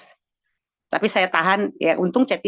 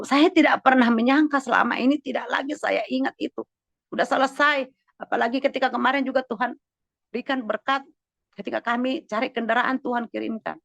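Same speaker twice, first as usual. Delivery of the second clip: higher-pitched preacher's testimony; fervent testimony preaching; 8 semitones higher than usual. Real, not acted. Pastor testifying to congregation about God's provision, fervent preaching. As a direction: testify with lifted, earnest voice.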